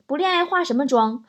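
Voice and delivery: imitating a mother's scornful "切"; a dismissive scoff, pitch up. Mother scoffing at daughter's makeup, mock scornful. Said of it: "我妈在一旁不屑地说".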